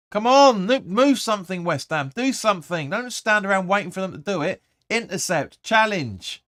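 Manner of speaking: exasperated fan yelling at his own team. Real, not acted. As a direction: bark orders at the telly like from the stands.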